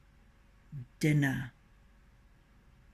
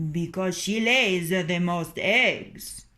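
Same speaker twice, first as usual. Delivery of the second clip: rooster voice; 5 dB louder than usual. Acted. Rooster answers hens.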